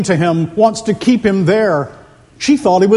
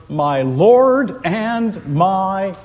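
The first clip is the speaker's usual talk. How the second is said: crying out; much slower than usual. Acted. Preacher voices Thomas seeing the wounds of his Savior, slow restrained cry. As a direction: stretch each word as a solemn confession. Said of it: "Thomas will cry out".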